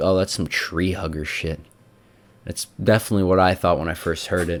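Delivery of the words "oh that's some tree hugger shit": normal talking voice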